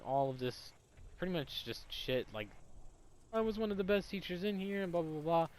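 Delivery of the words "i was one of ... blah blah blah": higher-pitched mock self-pity; mock tearful whining. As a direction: imitate the teacher's weepy complaint. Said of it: "that she's crying to 'em".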